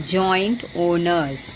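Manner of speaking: slow, deliberate recap of the phrase; teacher repeating a phrase slowly for students. Shown as a demonstration. Slowly repeating a collocation for the class. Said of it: "वापस से repeat कर रही हूँ मैं".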